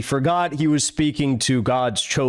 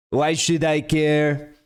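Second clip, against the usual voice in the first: slow, sneering put-on French accent; mock French accent; slower than usual. Mocking the Israeli interviewer, in a slow put-on French accent. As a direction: drag it out in a disgusted French accent. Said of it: "It's like a French accent almost".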